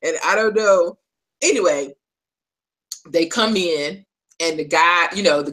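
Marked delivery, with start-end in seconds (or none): 0.0-1.0 excited gush. Retold or imitated. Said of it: "I was like, oh my God".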